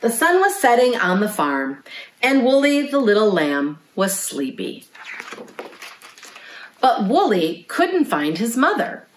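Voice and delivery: lively picture-book narration; reading to children. A narrator's reading. Librarian reads a lamb's bedtime story to children, storytelling. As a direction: read a bedtime story to little listeners.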